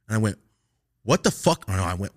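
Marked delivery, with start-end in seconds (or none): 1.0-1.7 higher, louder mock outrage; indignant retort. Student answers the officer's accusation, indignant. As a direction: throw it back in disbelief.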